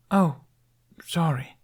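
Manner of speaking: put-on high, startled boy; a kid caught off guard; gasped sorry. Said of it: "Jamie gasped".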